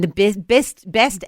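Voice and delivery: best said as a short mock Kiwi "bist", lightly done; a quick, lightly done New Zealand accent on best. Joking with his co-host, a passing mock New Zealand accent. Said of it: "that was my New Zealand accent".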